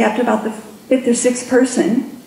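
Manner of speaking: ordinary talk, nothing marked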